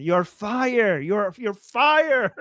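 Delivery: "fire" with no d, stretched slowly; drawn-out "You're fire" as a compliment; savouring the word "fire"; mock correction. Shown as a demonstration. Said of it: "this is a compliment".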